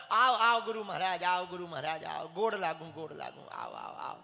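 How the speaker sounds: bow and scrape as you welcome; fawning welcome. Retold or imitated. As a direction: headman greeting the guru, fading away.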